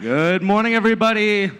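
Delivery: excited greeting. Real, not acted. Announcer greets crowd loudly.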